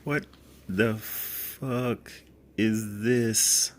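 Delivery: high, stunned what-is-this; shocked disbelief. Real, not acted. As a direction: gape at the shoes in disbelief. Opening the shoe delivery.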